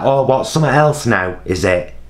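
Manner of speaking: mildly exasperated comeback; sarcastic retort. Retold or imitated. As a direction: push back with weary sarcasm. Imagined retort to CEO's sister.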